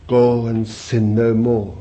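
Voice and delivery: slow, firm command, falling at the end; Jesus's command. Acted. Preacher quotes what the disciples heard Jesus say, slow command. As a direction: say it slowly and firmly, as a command. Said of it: "when they heard him say".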